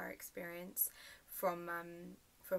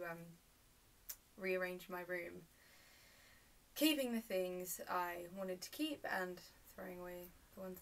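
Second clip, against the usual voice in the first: subdued storytelling with long pauses; naturalistic monologue; 4 dB quieter than usual. Acted. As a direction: recount it haltingly, trailing softer. Performs a dramatic monologue.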